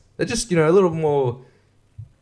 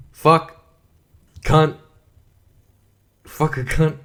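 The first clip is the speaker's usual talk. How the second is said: blurted swears; 3 semitones higher, slower than usual. Real, not acted. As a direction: spit out single swear words for fun. Swearing on purpose for podcast.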